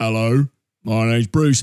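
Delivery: very low, deep character voice. Naming movie characters for viewers, doing a different voice: Bruce voice. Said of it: "different voice".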